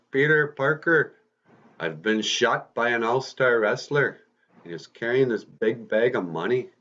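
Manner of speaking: wounded man's last words, mildly hammed-up; dying uncle. Shot Uncle Ben's last words.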